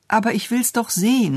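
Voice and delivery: put-on high, whining-free child's protest; insistent cry. A narrator's reading. Little girl protesting to her father, insistent. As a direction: call out in high-pitched protest. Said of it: "rief Elsbettchen".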